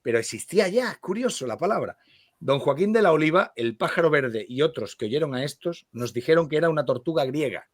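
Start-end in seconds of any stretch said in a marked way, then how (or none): 2.4-7.7 measured literary read-aloud; lectura literaria. Acted. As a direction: read the story aloud with care, phrase by phrase. Lee en voz alta. (lectura literaria en voz alta)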